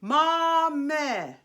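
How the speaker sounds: "Mame" sustained on a pure "e"; pure vowel mame. Shown as a demonstration. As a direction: hold "Mame" long and clean. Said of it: "It's not mame".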